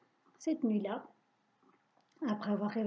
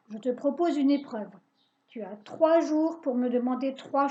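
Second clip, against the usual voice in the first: louder, commanding witch; stern witch; 4 dB louder than usual. Acted. Witch dismissing the boy's pleas, louder. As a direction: lay down the challenge.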